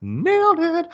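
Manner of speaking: high, slow smug actor voice; Nick Cage voice. Retold or imitated. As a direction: savour it like a proud ham actor. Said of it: "Nick's like".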